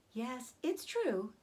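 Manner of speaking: slow, sighing reply; sighed. Acted. Charlotte sighs to Wilbur about the eggs, slow and sighing. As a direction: let it out slowly on a sigh. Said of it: "sighed Charlotte".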